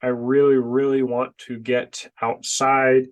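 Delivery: congested, blocked nose voice; talking through a stuffy nose. Real, not acted. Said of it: "I can't breathe out of my nose either".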